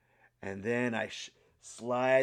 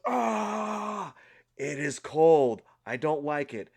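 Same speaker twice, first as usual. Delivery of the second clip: cold shock cry; 3 semitones higher, slower than usual. Retold or imitated. Under the cold shower, yelping then complaining slowly.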